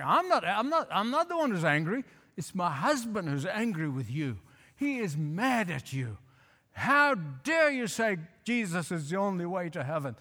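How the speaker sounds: mock the upset lady on the phone; half-hearted angry wife on the phone; imitating angry caller. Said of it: "a very angry lady".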